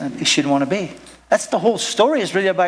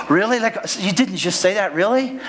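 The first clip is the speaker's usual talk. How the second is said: shocked Peter; 4 semitones higher than usual. Acted. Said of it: "Peter's like".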